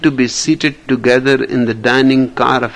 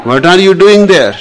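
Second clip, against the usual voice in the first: surprised lady; 6 semitones higher, 7 dB louder, faster than usual. Acted.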